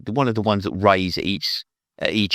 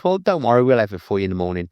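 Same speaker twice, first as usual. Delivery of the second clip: breezy promise; 3 semitones higher, 4 dB louder, faster than usual. Retold or imitated. Jake reassuring the Penguin about the money, breezy and fast. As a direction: rattle off a cheerful promise.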